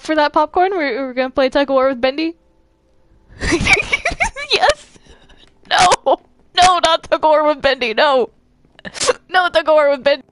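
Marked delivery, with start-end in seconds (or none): 3.4-5.0 gleeful squeal. Acted. Gleeful answer to tug of war. 5.7-10.3 raised, urgent objection; alarmed protest. Acted. Protesting being used for tug of war.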